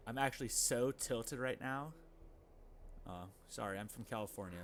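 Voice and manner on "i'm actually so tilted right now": put-on slow drawn-out Valley Girl accent. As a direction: play a dramatic Valley Girl, a bit higher. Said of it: "my Valley Girl impression".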